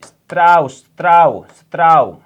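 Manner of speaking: स्त्राव repeated loud with a falling end. Shown as a demonstration. Teacher drilling स्त्राव loudly to the class. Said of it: "इसको भी साथ में लिखो".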